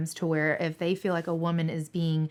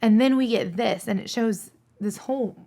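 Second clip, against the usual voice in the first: real emotion, voice riding higher; fighting back tears; 4 semitones higher, 3 dB louder than usual. Real, not acted. Dispatcher telling of drivers away from families, tearful. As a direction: push on through the urge to cry. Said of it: "I'm gonna start crying now".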